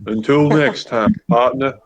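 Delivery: put-on understated western accent sign-off; cowboy farewell. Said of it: "That was a Red Dead Two cutscene".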